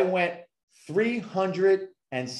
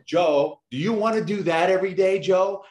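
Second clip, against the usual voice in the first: uncle's challenge; 5 semitones higher than usual. Retold or imitated. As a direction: fire the question at the kid, hammed up. Uncle pushing the boy.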